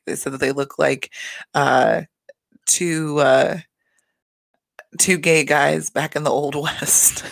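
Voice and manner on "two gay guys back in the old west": slow, breathy giggle-whisper through the punchline; laughing whisper. Retold or imitated. Retelling Reza's joke to viewers, whispered through laughter. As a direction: barely get the joke out for laughing.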